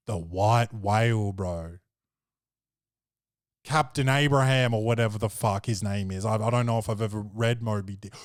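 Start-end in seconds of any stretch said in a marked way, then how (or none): none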